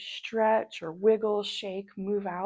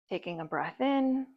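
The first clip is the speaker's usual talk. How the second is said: guided relaxation. Acted. Yoga guide leading listeners to soften on every exhale, guided relaxation. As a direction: guide unhurriedly, leaving room for each breath.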